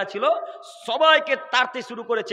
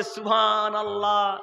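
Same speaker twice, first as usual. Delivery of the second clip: slow, drawn-out mock exclamation; imitating the audience; much slower than usual. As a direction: lightly mimic the listeners, stretching the word. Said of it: "যত শ্রোতা সবাই বলছে". (শ্রোতাদের হালকা নকল, টেনে টেনে)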